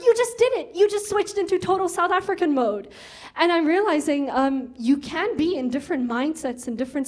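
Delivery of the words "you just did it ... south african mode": mock surprise. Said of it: "he was like".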